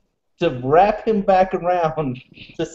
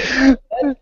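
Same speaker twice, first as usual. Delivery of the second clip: laughing; 4 semitones higher, much slower than usual. Real, not acted. Laughing through retold reply.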